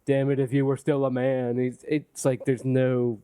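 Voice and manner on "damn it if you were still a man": flat, lifeless line reading; bad acting. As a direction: say it dead, no energy behind it. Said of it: "It's just kind of dead out of his mouth".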